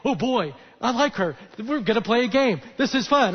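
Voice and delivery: a lightly voiced, excited playful dog; happy dog's thoughts. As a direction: play the dog thrilled at a new game. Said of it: "Riley's thinking".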